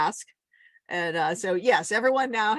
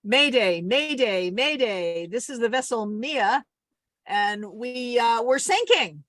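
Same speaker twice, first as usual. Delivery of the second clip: mayday radio call; 3 semitones higher, slower than usual. Shown as a demonstration. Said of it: "You be the Coast Guard".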